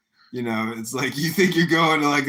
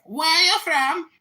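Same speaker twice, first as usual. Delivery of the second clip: high, loud chirpy question; 10 dB louder than usual. Retold or imitated. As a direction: chirp it like a bar girl chatting up a client. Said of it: "she's like".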